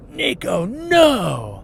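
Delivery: sudden loud high shout of no; loud yell. Retold or imitated. Dad shouting at his son about to throw cereal, loud and sharp. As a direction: stop him dead with one loud bark. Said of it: "And I yelled so loud".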